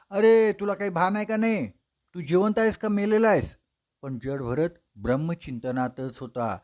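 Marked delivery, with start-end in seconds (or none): 0.1-3.6 higher, louder scolding shout; angry yell. Acted. King shouts at the bearer jolting his palanquin, angry. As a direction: berate him at full voice. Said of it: "राजा ओरडला".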